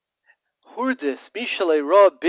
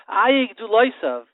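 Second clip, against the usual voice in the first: mournful lament; 8 semitones higher, 6 dB louder, slower than usual. Retold or imitated. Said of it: "destroyed Beis Hamikdash".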